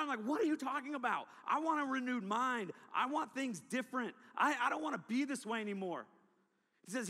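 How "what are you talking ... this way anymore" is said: frustrated protest. Retold or imitated. Teen protests the preacher's advice.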